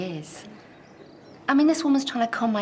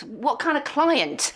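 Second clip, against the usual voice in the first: slow insistence; 5 semitones higher, much slower than usual. Acted. Demanding an explanation.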